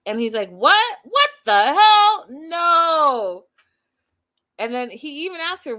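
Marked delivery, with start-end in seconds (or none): 0.5-3.4 loud, high shocked outburst; shocked disbelief. Retold or imitated. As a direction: blurt it out in total disbelief. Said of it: "all shocked".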